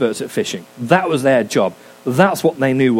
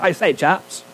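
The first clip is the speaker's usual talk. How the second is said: high, plummy English gent calling out; mock upper-class English accent; posh English accent; 7 semitones higher than usual. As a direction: hail the boat like a posh English gentleman. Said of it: "I'm gonna give him an English accent".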